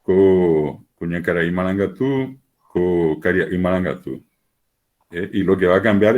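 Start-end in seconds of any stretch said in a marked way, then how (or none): 0.0-4.2 slow, even model phrases for learners to repeat; slow drill phrase. Shown as a demonstration. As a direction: lay out each word slowly for repetition. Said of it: "voy haciendo la relación".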